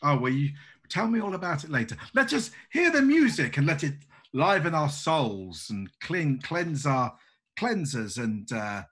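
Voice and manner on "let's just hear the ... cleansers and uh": louder, carefree toast; said rather loudly. Acted. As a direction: shout down the Bolsheviks cheerfully. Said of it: "She said rather loudly, laughing".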